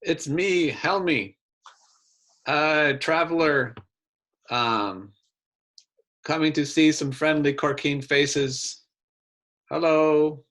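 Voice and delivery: lightly put-on Corkine accent. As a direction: greet them in a hint of Corkine accent. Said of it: "in my best Corkine accent, say".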